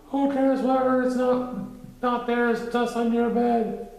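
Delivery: high loud Pooh. A narrator's reading. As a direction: ask it wide-eyed. Pooh's voice.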